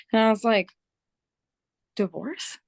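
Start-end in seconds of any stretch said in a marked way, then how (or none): 2.0-2.6 softer, stunned question, retold; mildly taken aback, quietly questioning; surprised. Retold shock at divorce news.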